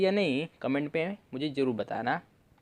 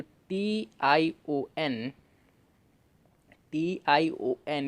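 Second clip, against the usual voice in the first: slow spelling; much slower than usual. Shown as a demonstration. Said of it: "इसे आप शन पढ़ोगे".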